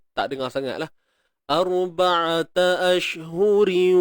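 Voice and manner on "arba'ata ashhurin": ashhurin blended with nasal merge, slow; idgham demo. Shown as a demonstration. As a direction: merge the tanwin into waw. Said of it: "Sebab ada idgham". (idgham bi ghunnah perlahan)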